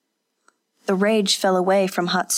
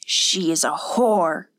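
hardened resolve; slower than usual. Acted. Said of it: "her resolve seemed to harden".

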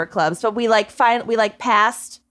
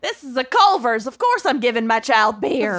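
mock Southern accent. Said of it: "why I have a Southern accent".

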